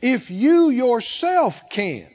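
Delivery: "if you yourself can." drawn out slowly, stress on "you"; slow down and lean on "you"; slow emphatic reading. Shown as a demonstration. Pastor reading the Good News verse, slow stress on "you". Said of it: "the Good News translation says it like that".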